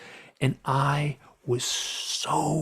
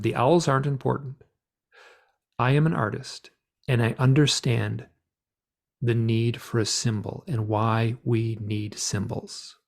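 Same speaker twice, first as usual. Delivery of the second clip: forthright and clear. Retold or imitated. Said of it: "speaking very clearly, very forthrightly".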